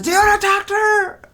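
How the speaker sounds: a hint of a taunting scammer. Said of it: "then he goes".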